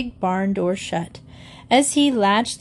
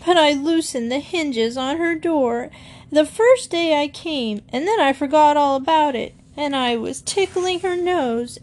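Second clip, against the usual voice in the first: higher, fast tumbling excuses; frightened boy; 6 semitones higher than usual. A narrator's reading. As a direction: rush out the confession. Frightened boy babbling explanation.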